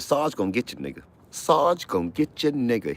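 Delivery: high, loud barking guard; mock guard yell. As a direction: bellow like a prison guard. Guard taunting inmate.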